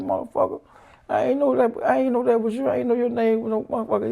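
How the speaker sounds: lightly voiced coach in mild disbelief; amazed rant. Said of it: "he said".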